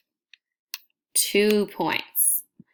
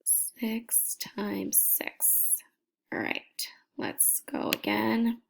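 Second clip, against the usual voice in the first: slow, breathy whisper; 2 semitones higher, 7 dB quieter, slower than usual. Real, not acted. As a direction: whisper so nobody wakes. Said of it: "you hear me whispering".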